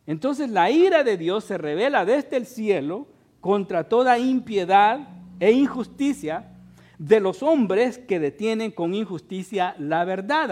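loud, emphatic pulpit delivery; forceful preaching. Real, not acted. Preacher declaring the wrath of God from scripture, preaching forcefully. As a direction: proclaim it to the whole congregation.

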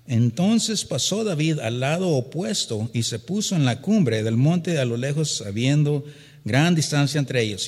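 loud, declaiming Bible reading; preacher reading scripture aloud with force. Acted. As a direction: proclaim the verse to the congregation.

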